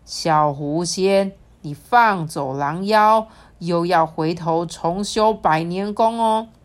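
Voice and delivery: slow, loud stern reminder; stern warning. Acted. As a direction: warn her gravely, slowly. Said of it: "提醒他说".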